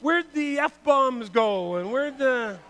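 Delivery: drawn-out, wondering where'd; slow, amazed sermon aside; slow amazed question. Real, not acted. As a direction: stretch it out in disbelief. Marvelling at lost swearing.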